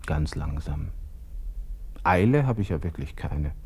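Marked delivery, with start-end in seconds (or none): 0.0-0.9 geflüstert. Acted. Gustl ermahnt sich selbst.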